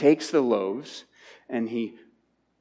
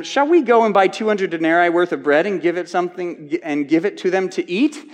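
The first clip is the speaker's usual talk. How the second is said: higher, louder mock question; sarcastic; 4 semitones higher, 4 dB louder than usual. Disciples answering Jesus sarcastically, higher and louder. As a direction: ask it as a scornful jab. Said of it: "This is a sarcastic response".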